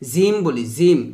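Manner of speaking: জিম said as "zim" with a z; tongue to the teeth, buzz the start of জিম; mistaken ZIM. Shown as a demonstration. Teacher imitates learners' common error, "zim" for জিম. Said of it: "জিম বলা যাবে না".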